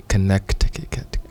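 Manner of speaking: slow copy of "Connecticut" as kə-NEK-ti-kik-ut; imitating kenyan accent. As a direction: tries the Kenyan "Connecticut" slowly. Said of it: "It doesn't work, man".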